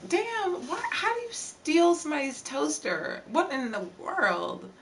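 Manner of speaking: high-pitched disbelief; shocked. Real, not acted. Reacting to toaster theft.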